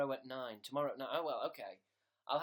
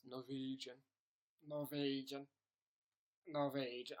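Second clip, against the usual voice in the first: lightly attempted Norwegian accent; 2 semitones lower, 3 dB quieter than usual. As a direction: try the word in a Norwegian accent. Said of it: "Do Norwegian".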